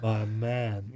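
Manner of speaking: low, flat try at "My man"; wooden line attempt. Cohost trying Keanu's wooden line, low and flat. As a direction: attempt Keanu's dead delivery. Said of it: "I'm trying to do it".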